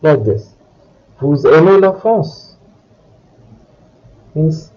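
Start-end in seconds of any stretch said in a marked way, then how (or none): 1.2-2.6 "Vous aimez la France?" with the voice going up at the end; "Vous aimez la France?" as a rising question; question intonation. Shown as a demonstration. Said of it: "make your voice go up".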